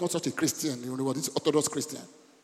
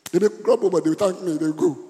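loud joking exclaim; 4 semitones higher, 9 dB louder than usual. Acted. Pastor tells the congregation about grumbling relatives, loud and playful. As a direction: burst out louder with a laugh in it.

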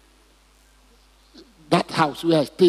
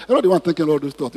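quick repeat; faster than usual. Shown as a demonstration. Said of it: "Tell the person beside you".

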